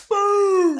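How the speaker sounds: huge high booming yell; shouted impact. Retold or imitated. Husband acting out his wife's knockout punch, high shout. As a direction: belt out the punch as a sound effect.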